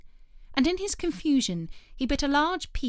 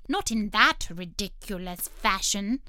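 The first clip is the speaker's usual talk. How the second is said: sulky; 6 dB louder than usual. Acted. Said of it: "sulkily crossed over".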